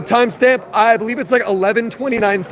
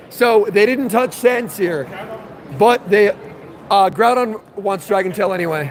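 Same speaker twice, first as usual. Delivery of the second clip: hoarse from yelling all day. Real, not acted. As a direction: speak through a worn, hoarse throat. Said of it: "What's with your voice?".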